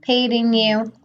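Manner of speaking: put-on high, sweet old grandmother; high doting granny voice, slowed on the endearment; grandma voice. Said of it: "she's like".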